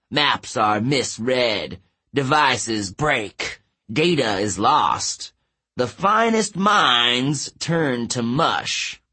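slow, grandiose giant's boasting; gloating giant. Acted. Giant announcing his powers to despairing girls, gloating. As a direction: proclaim it slowly as a menacing giant.

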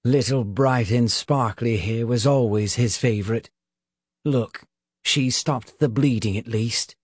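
a lightly voiced contemptuous witch; scornful witch voice. A narrator's reading. Witch speaks.

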